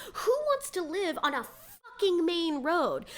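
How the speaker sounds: a hint of a snooty rich woman; mock snooty Dorit. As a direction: sneer it like a snob. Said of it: "She goes".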